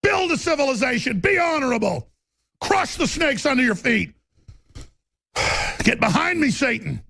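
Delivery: high, shouted commands; fervent shouting. Real, not acted. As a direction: preach it like a war cry. Voicing his spirit's battle cry.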